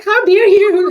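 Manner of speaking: high, loud outraged outburst; mock furious. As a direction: blurt it in exaggerated indignation. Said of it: "Like, I'm so furious".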